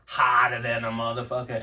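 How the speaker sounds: lightly imitated Boston accent, rapper quoting. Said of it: "he has this, like, Boston accent where he's like".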